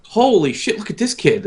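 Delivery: mock amazement. Onlooker admiring a golfer on the range, mock amazement. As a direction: act out an awed bystander.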